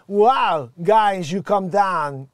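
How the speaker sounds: a quick mock Indian accent; mock Simpsons shopkeeper. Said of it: "I could do Hank Azaria doing the dude from Simpsons".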